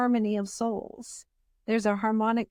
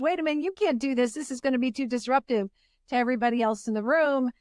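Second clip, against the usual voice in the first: a quick, slightly raised inner protest; lightly voiced objecting ego; 3 semitones higher, faster than usual. Ego interrupts her mid-journey about disrupting the room, lightly voiced objection. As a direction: cut in fast, like a mildly worried inner voice. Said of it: "the ego, like you, kind of jumps in and says".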